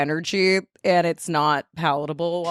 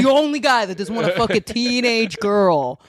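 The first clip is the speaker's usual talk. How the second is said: mock indignation; 4 semitones higher than usual. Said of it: "And then I'll get mad".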